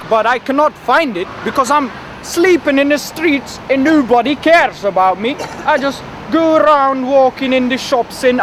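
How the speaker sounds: a shaky attempt at an Irish lilt; Irish accent. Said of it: "Do an Irish accent then".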